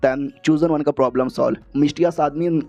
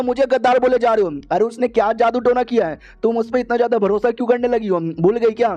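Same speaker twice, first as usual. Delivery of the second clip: high-pitched, mildly outraged questioning; acted lovers' quarrel, hurt and accusing; indignant accusation; 6 semitones higher than usual. Boyfriend accuses girlfriend of betrayal, indignant.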